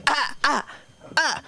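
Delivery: short, high yelped "ah"; imitated outbursts. Comic greeting her audience while watching a sleeper, startled yelps. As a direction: jerk out sudden repeated cries mid-greeting. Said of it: "They think I have Tourette's".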